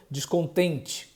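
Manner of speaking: "descontente" said softly, final "te" barely heard; spoken descontente. Shown as a demonstration. Teacher contrasting speech with song, soft "descontente". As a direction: let the final syllable of "descontente" drop. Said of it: "mas falando".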